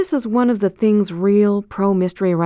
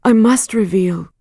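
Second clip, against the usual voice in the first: firm Hester; 4 semitones higher, 3 dB louder than usual. Acted. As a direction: set each word down firmly. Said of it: "Hester answered firmly".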